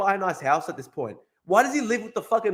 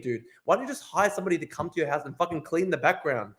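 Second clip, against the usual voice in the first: ordinary talk, nothing marked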